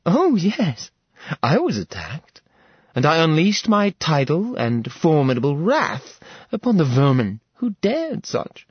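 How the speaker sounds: a queen outraged at intruders; menacing goddess. A narrator's reading. Apollome confronting intruders in her palace, haughty menace.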